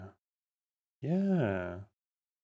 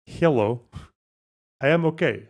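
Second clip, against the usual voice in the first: put-on practising a rough Russian accent. Streamer retrying the Russian caller's lines, rough Russian accent. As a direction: feel your way back into a Russian accent. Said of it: "why have I lost a Russian accent".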